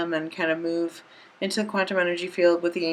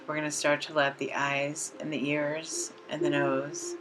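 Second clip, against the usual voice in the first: calm, even meditation voice with long pauses; unhurried relaxation script, leaving space to breathe; guided meditation. Acted. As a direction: guide the listener gently into relaxation, phrase by phrase.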